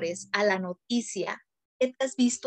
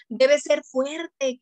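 very slow, louder stern command; stern adult; 3 semitones higher, 5 dB louder, much slower than usual. Retold or imitated. Adult ordering a grieving child to be strong, very slow and stern. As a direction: spell out each word like a strict parent.

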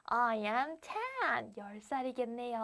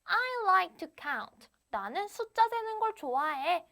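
put-on story girl's voice; 7 semitones higher than usual. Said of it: "the girl says".

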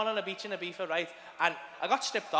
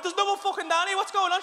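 high, raised-voice demand; acted cross yell from downstairs; exasperated calling upstairs; 11 semitones higher than usual. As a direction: shout it up, irritated. Repeating the shout to partner upstairs.

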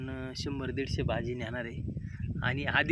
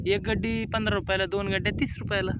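vendor pitch; 5 semitones higher than usual. Acted. Answering customer as seller.

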